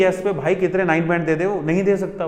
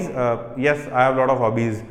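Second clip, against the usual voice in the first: hesitant student answering in a flat low voice; lower, hesitant student reply; weak one-word answer; 6 semitones lower, much slower than usual. Shown as a demonstration. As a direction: play the timid student giving a short reply. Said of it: "One word answer".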